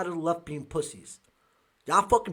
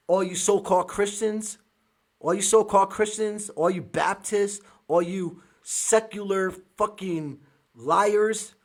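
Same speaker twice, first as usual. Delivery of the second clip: angry shout; 3 semitones higher, 5 dB louder than usual. Real, not acted. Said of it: "but I am so angry".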